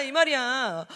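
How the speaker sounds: ordinary delivery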